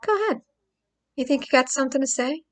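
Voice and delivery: high mocking sneer on Go ahead; sneering abuser taunt. Mimicking an abuser taunting his victim, high sneer. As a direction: taunt like a bully daring her. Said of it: "that's like saying".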